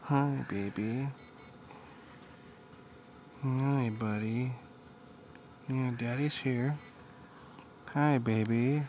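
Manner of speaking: slow, stretched loving hellos; tender cooing. Real, not acted. Father cooing to his waking baby son, slow and tender. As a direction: draw out each greeting like a lullaby.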